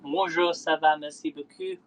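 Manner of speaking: trying out a French accent; beginner's French, said with a learner's French accent. Shown as a demonstration. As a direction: show off a little schoolroom French. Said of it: "How's my accent?".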